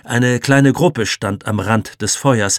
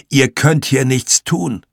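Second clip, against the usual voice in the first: put-on old man; 4 semitones higher, 5 dB louder than usual. A narrator's reading. Old man stops children.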